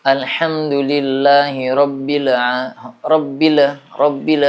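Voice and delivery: rabbil with an added echo on the b; wrong tawallud. Shown as a demonstration. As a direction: add a faulty bounce on the b of rabbil. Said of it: "itu tawallud namanya". (rabbil dibaca dengan pantulan b yang salah)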